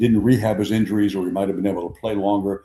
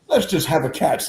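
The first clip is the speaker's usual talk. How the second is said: higher, lightly put-on Oklahoma voice; Mickey Mantle; 6 semitones higher than usual. Mantle to weepy Billy, imitated Oklahoma accent. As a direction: cut off the sentiment in an Oklahoma accent. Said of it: "Oklahoma accent".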